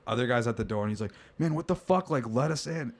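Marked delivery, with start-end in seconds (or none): 1.4-2.9 high mock voice of an irritated guy; annoyed guy. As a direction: demand to be let in, fed up.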